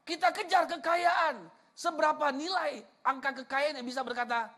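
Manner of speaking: high, emphatic sermon delivery; impassioned preaching. Real, not acted. Preacher telling congregation what Jesus really wants, impassioned. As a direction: preach it out with punched key words.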